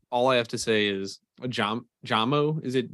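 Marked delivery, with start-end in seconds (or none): 1.5-2.6 Jamo said as JAH-mo; broad "ah" in the first syllable of Jamo; trying out a pronunciation. Shown as a demonstration. Host unsure how to say a player's nickname, trying out a pronunciation. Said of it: "How do you pronounce the nickname".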